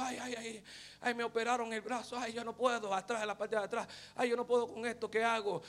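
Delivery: put-on soft pained muttering of an old cleaning lady; mumbled complaining. Preacher imitating the tired old cleaner, quiet pained grumbling. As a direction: moan under your breath as if your arm hurts. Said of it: "quejándose, murmurando".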